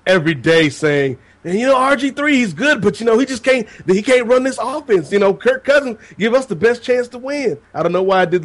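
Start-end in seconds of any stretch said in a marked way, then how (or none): 1.4-7.6 Southern hillbilly voice. Retold or imitated. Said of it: "the Southern Hillbilly voice for that".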